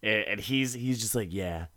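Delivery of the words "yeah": passive-aggressive. Retold or imitated. Husband snaps back at wife defending their friend, passive-aggressive. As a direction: draw out the jab in an exaggerated husband voice. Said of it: "passive-aggressive nonsense of this episode".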